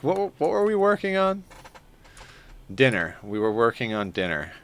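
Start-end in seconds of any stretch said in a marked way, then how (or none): 0.0-1.4 higher, dazed retold voice; confused self. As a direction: play your own baffled self. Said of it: "I was like".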